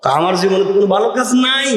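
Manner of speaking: quick protest rising toward the end; protesting to friends. Retold or imitated. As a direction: say it aloud, voice climbing to a high finish. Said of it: "দুই বন্ধু বলছে". (গলা চড়িয়ে বন্ধুদের কাছে আপত্তি)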